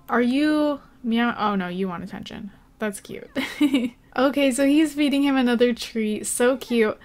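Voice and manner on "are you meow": pet talk. Real, not acted. Gamer talking to her Sims cat in slow pet talk. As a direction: coo it at the kitty.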